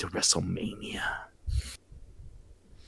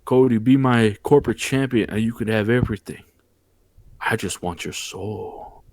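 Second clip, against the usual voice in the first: retold tempter. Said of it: "That bald-headed fraud was feeling Cody".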